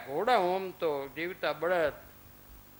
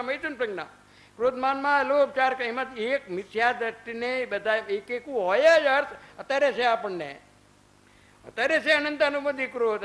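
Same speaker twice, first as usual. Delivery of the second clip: higher and louder, driving the doctrine home; fervent preaching; 4 semitones higher, 4 dB louder than usual. Acted. Monk lectures the congregation on anger, raised fervent preaching. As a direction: preach it with full conviction to the hall.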